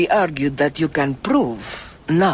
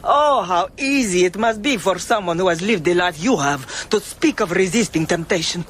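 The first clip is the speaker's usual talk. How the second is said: bitter laugh; 5 semitones higher than usual. Acted. Bitter laugh confronting accusation.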